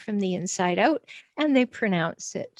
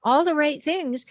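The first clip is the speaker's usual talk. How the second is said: bewildered self-questioning. Retold or imitated. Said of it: "you pop up and look around and say".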